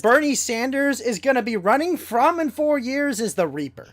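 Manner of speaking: shouting as Tyrone Sanders; African American accent. Pretend. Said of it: "that's my Tyrone Sanders voice".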